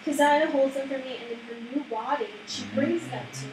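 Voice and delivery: a hint of an old crone; old lady voice. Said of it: "So that's the old lady voice".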